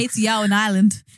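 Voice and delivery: jokey attempt at an Irish accent; badly faked Irish greeting. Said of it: "supposed to be an Irish accent".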